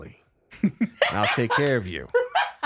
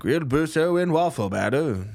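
vendor call; 5 semitones higher than usual. Acted. Street vendor calling out.

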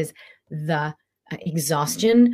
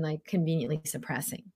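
whispered aside; 7 dB quieter than usual. Acted. Whispered self-realisation.

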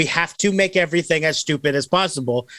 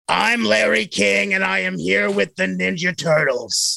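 Larry King; 3 semitones higher than usual. Retold or imitated. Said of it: "I think we could do a Larry King".

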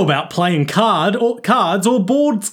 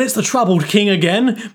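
upbeat streamer host voice; YouTuber voice; 4 semitones higher than usual. Acted. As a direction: announce yourself like a YouTuber. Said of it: "my YouTuber voice".

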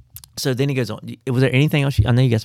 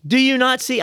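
talking donkey; 11 semitones higher than usual. Acted. Talking donkey scolds Balaam.

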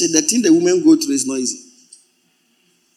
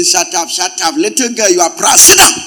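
scolding. Acted. Preacher voicing scolding parent.

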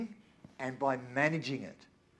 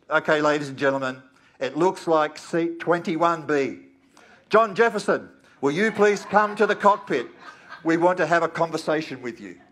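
loud, laughing intercom announcement; airline pilot announcement; 3 semitones higher, 10 dB louder than usual. Pretend. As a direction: call the passenger up like a pilot on the PA. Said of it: "the captain's voice comes over the PA".

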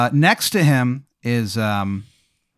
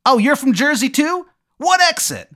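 very high, loud hollered question; hammed-up high-pitched creature holler; Jersey Devil shout; 5 dB louder than usual. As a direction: shout it across to a fellow Jerseyan. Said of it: "shout to someone like".

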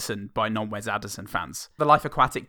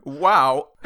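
southern Owen Wilson; 4 semitones higher, 8 dB louder than usual. Acted. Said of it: "I think he is now".

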